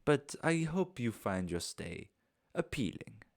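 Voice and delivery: lightly voiced courteous foreign host, unhurried; a hint of a genteel host saying farewell; polite foreign host. Bastian bidding guests goodbye, lightly voiced.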